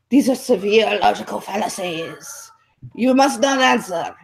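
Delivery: mock prissy defense lawyer rising to a yelp; a prim objecting lawyer, half-hammed. Retelling a debate, mocking a moderator as a prissy lawyer. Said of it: "he's like this prissy defense lawyer".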